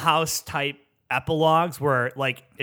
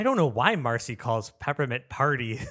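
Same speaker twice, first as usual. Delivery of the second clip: reading through real amusement, laugh breaking in before the last word; cracking up; 2 semitones lower, 4 dB quieter than usual. Real, not acted. Reader struggling with the script's typos, cracking up. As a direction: try to read it straight and crack up.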